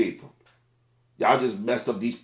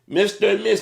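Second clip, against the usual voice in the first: raised, polite "excuse me" to a sleeping driver; polite crew call; 9 semitones higher, 3 dB louder than usual. Retold or imitated. Crew member politely addressing sleeping drivers, raised polite voice. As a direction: politely wake the customer in a higher voice. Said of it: "and say".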